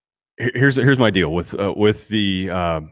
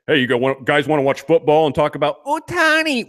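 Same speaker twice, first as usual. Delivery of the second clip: mocking sportscaster; 3 semitones higher than usual. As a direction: parody of a timid radio host asking about Ohtani. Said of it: "it'd be like this".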